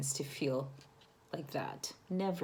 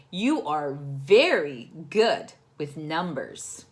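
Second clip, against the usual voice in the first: proud mom; 6 dB louder, slower than usual. Acted. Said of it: "said Mom".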